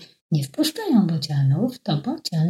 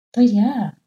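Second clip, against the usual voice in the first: a mild call, pitched up; 5 semitones higher, 4 dB louder than usual. Acted. Stork calls out to the owl, a mild call. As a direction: call out to be recognised. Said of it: "zawołał".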